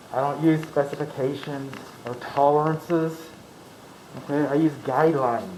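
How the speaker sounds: talking through a face mask; muffled by a mask. Real, not acted. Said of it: "sorry for the muffled sound again".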